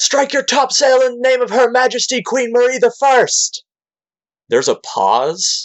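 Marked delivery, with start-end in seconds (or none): 0.0-3.6 high, hollered, far-carrying shout. A game master voices another ship's crew calling to the players, shouting. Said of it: "you hear them shout".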